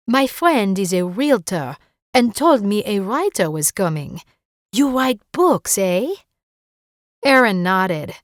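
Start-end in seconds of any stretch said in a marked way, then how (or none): 0.1-6.1 put-on light French accent, friendly and curious; a chatty neighbor with a French lilt. Rosalie quizzes the new writer in a light French accent. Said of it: "in a thick French accent".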